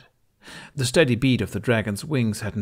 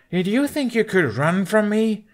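high, louder menacing taunt; malicious; 13 semitones higher, 5 dB louder than usual. Acted. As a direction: let the malice and hurt show. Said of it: "A malice she never thought she'd hear in his voice".

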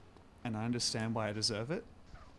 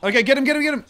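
higher, louder urging; excited shouting; 13 semitones higher, 15 dB louder, much faster than usual. Real, not acted. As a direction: hype them up, yell it. Urging during fight.

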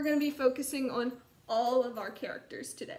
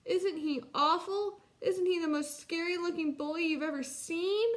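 put-on higher-pitched, mildly scared child; alarmed cub; 6 semitones higher than usual. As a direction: appeal to mum in lightly acted dread. Frightened cub describes bully to mother.

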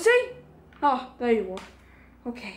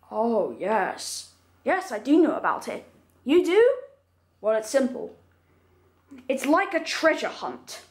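ancient iron golem; 4 semitones lower than usual. Acted. Golem explains the emerald.

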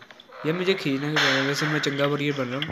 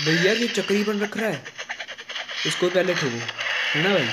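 raised, high-pitched call to a teammate; alarmed urging; 4 semitones higher than usual. Real, not acted. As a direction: urge them on at a high pitch. Alarmed at spinning monster, urging attack.

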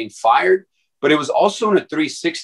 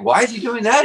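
much higher, incredulous asking; puzzled question; 11 semitones higher than usual. Retold or imitated. Visitor asks his friend about the moaning dog, baffled and high. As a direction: ask it in baffled disbelief. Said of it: "He's like".

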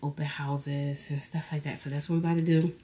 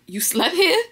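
quoting Mendeecees; 13 semitones higher, 9 dB louder than usual. Retold or imitated. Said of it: "He like".

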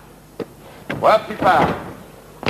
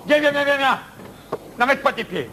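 urging on; 10 semitones higher than usual. Real, not acted. Coach urging athlete to come.

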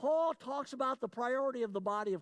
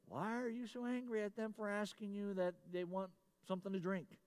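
inner voice; 7 dB quieter than usual. Retold or imitated. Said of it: "all of a sudden my brain goes".

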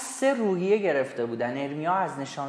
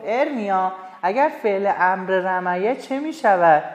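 discovery; 2 semitones higher, 5 dB louder than usual. Acted. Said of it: "انگار چیزی کشف کرده باشد".

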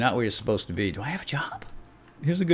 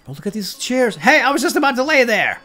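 mock indignant squeal; 9 dB louder than usual. Mock reaction voicing an inmate.

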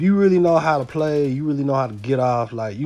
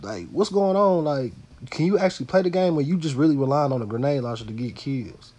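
exasperated; 2 semitones higher than usual. Retold or imitated. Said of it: "And I just like".

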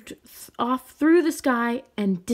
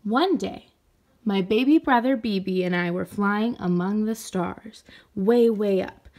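storybook narration. Acted. Teacher reading the story to children, lively storybook narration. Reads picture book story aloud.

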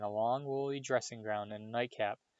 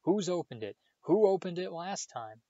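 urgent questioning; 7 semitones higher, 5 dB louder than usual. A narrator's reading. Harry presses Dobby.

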